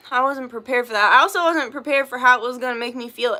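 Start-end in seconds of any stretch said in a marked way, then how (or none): 0.1-1.1 sigh, then the same words said resigned; sighing repeat. Real, not acted. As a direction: let it drop, weary and resigned.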